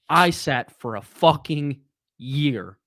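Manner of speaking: heated, emotional rant; raw emotion. Real, not acted. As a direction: let the real anger out. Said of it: "Sorry if I get a little emotional here".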